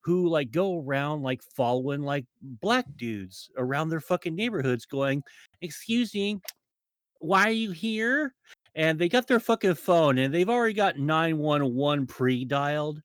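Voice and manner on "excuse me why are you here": higher-pitched mock busybody; imitating a Karen. Karen confronting people in her neighborhood, imitated indignation. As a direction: challenge them in a raised, put-on Karen voice. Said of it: "specifically white women with a certain haircut".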